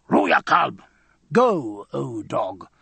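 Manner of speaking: loud dismissive curse. A narrator's reading. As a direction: snap it out loud. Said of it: "till a loud".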